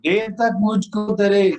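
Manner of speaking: solemn, measured poem delivery; stately nazm recitation. Acted. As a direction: recite the nazm slowly to the audience.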